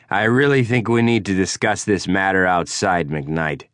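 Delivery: a hint of a drunk big man's menace; menacing rival. Prudell calling McKnight out to fight, lightly voiced threat.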